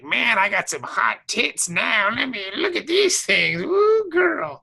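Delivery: drawn-out delight rising to a high "woo"; excited old lady. Acted. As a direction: gleefully play an old lady, pitch climbing. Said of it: "if you were an old lady".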